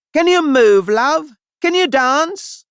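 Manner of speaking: high, loud call from a director out front; a director calling out from the seats, loud and high; calling from the stalls. Acted.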